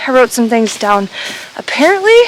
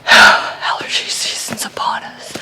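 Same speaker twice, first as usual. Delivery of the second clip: sniffly, stuffy voice; talking through a runny nose. Real, not acted. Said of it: "My nose is dripping".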